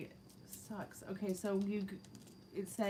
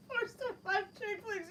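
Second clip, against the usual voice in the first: high mock pity.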